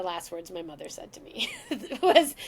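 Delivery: whispering through a laugh; laugh-whisper the last words. Real, not acted. Daughter whispering her mother's last words through a laugh.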